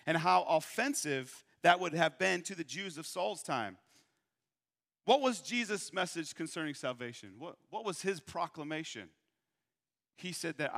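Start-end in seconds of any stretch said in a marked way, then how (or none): none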